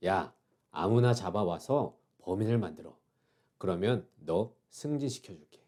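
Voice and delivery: lightly acted hushed order, low and soft; quiet order. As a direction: imitate a superior quietly giving a shady order. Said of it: "조용히 말합니다".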